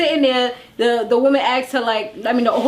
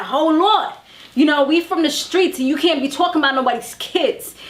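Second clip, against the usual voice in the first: imitating Deb; 4 semitones higher than usual. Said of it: "laying down the law with that raspy voice".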